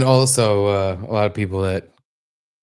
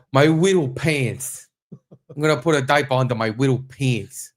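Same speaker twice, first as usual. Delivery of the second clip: put-on baby voice; 2 semitones higher than usual. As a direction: mimic a whiny little kid. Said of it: "He's got a baby voice".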